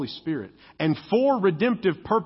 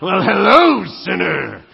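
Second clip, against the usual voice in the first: mock sultry greeting; 8 dB louder, slower than usual.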